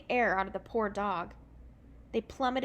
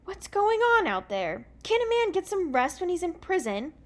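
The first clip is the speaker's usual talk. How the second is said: loud, much higher indignant shout; 8 semitones higher, 6 dB louder than usual. Acted. Jack yelling at the noise outside his cell, loud and high. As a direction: woken prisoner bellowing through the bars. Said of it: "he shouted".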